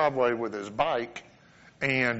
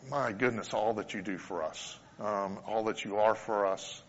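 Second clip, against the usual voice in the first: closing prayer; 2 semitones lower than usual. Acted. Pastor praying over his congregation, hushed and reverent. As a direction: pray over the congregation, slowing down gently.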